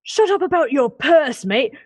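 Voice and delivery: high, loud irritated guard; annoyed second guard. Acted. Second guard yelling at the first one about the fog. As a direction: yell at a dim colleague to get back. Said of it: "you hear another voice from behind".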